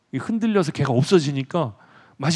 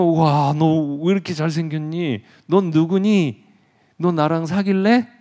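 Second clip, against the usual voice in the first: excited admiration; 3 semitones higher, 4 dB louder, slower than usual. Acted. Narcissus meets his reflection.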